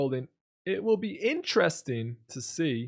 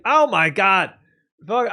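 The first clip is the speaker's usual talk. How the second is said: loud, higher-timbred mock exclamation; mock outburst; 3 semitones higher, 7 dB louder, slower than usual. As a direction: exclaim loudly in mock overwhelm. Mock outburst at chat praise.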